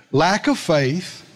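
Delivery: Lack of faith drawn out slowly, word by word; slow it right down the second time; slow emphatic repeat. Shown as a demonstration.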